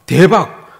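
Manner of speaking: loud, laughing "대박!"; workers' glee at the pay, excited; excited exclamation. Acted. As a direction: burst out with delight at the windfall. Early worker's excited thought.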